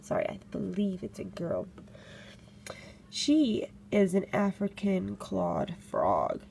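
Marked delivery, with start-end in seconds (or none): 3.1-6.4 careful slow naming. Shown as a demonstration. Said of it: "Try to say that ten times fast".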